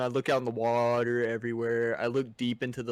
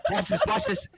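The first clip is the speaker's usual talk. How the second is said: excited boast. Retold or imitated. Friend bragging before casting.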